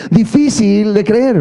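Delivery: slow, stretched TV-host catchphrase; hint of a TV host's tagline; Sergio Sepúlveda catchphrase. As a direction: lightly imitate the show host drawing it out. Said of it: "Sergio Sepúlveda dice".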